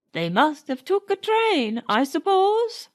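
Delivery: put-on gruff old servant gossiping; old coachman Burns. A narrator's reading. Burns telling Nanny about the funeral, lightly voiced old man. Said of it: "said the old man".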